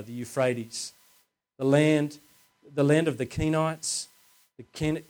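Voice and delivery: measured Bible reading aloud; scripture reading. Acted. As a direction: read scripture clearly to a congregation, phrase by phrase. Reads the Bible passage aloud.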